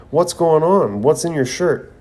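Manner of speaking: lightly voiced ninja panicking at his teammate's back; alarmed question.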